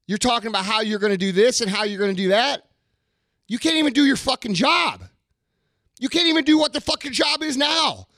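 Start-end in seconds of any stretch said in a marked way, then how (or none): 3.5-8.1 angry shout. Real, not acted. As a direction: yell it at them in real anger. Ranting at lazy followers.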